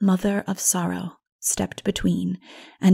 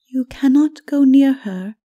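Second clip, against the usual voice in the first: raised, louder, firm warning; firm Mara; 6 semitones higher, 8 dB louder than usual. A narrator's reading. Mara stops the narrator from going to the princess, firmly.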